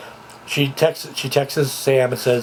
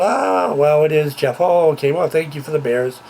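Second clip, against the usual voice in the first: imitating a flustered mother; 4 semitones higher than usual. Mother thanking Jeff for the bears, in a flustered higher voice. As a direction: play the mother caught off guard by the bears. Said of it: "She's, like, freaking out".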